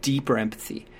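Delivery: empathetic parent. Pretend. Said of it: "go deeper into the empathy".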